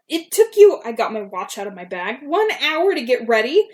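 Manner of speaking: indignant disbelief. Retold or imitated. Indignant at late friend.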